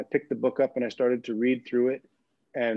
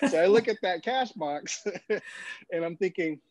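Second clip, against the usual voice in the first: laughs through the line, pitched up; laughing; 5 semitones higher than usual. Real, not acted. Guest laughing as he recalls eyeing the cash box, laughing. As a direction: giggle while admitting the temptation. Laughing while telling the temptation.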